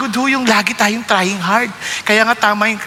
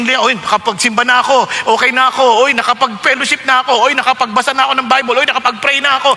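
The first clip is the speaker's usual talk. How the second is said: smug checklist voice. Retold or imitated. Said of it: "kundi ma-check yung".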